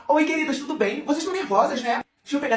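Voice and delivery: sing-song, high and unbothered; airy-headed friend. Acted. Lívia greets the angry girls, sweetly unbothered. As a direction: sweetly greet as a clueless girl. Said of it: "era apenas o jeitinho dela".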